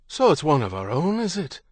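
high reedy voice with menacing undertones; reedy, chilling tenor. A narrator's reading. Gunman on the pier confronting John, reedy and menacing. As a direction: chill them with a lilting, high question. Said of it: "The voice was a reedy tenor with undertones that sent a chill".

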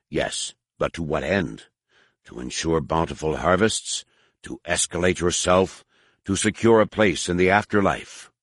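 low, coolly probing questions; probing alien priest. Acted. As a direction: press him with calm, low questions. Harar questions the Gotal.

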